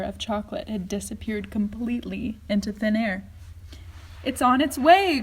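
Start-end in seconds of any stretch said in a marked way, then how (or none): 4.3-5.2 high, louder eager cry; excited cry. A narrator's reading. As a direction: announce it with delight. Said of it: "cried Mister Wonka".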